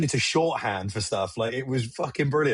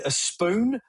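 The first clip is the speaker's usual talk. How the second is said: Robin Hood quote; 8 semitones higher than usual. Retold or imitated. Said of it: "Robin Hood, Prince of Thieves references".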